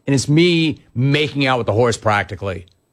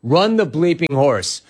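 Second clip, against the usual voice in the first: slow, sarcastic read of the caller; drawn-out mock quote; hammed-up know-it-all caller; mocking Frank; 2 semitones higher, slower than usual. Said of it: "noted equine expert Frank in Boise".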